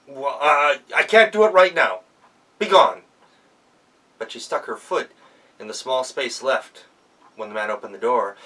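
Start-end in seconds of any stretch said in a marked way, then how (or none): 0.1-3.0 louder, firm refusal; stern dismissal. Acted. Miller dismisses the girl with a loud, firm refusal. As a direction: send her away firmly.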